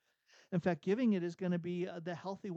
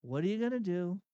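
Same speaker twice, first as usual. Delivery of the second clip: mock helpless question, slightly raised; 2 semitones higher, faster than usual. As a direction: ask it as a powerless shrug. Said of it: "say it as a question".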